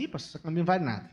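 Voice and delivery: fast, scornful brush-off; dismissive put-down. Retold or imitated. Friend belittling the pastor's new shirt, fast and dismissive. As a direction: rattle off the put-down quickly. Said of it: "o Vinícius fala assim".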